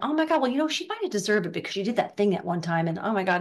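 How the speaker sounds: mock-scandalized, settling into chatty dishing; mock catty gossip. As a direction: play a group gossip passing judgement. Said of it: "you just get bitchy or gossipy or moany".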